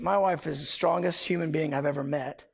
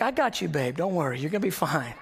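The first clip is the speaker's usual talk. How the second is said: lower, unruffled imitated wife; cool reassurance; 4 semitones lower than usual. Wife calming her panicking husband, cool reassurance. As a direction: soothe coolly, voice dropped low. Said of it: "she's pretty cool".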